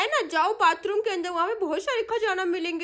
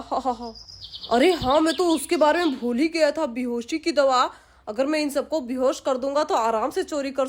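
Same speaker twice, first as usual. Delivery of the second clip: scheming thief musing to himself, lightly acted; a touch of a greedy burglar plotting aloud; lightly voiced thief; 4 semitones lower than usual.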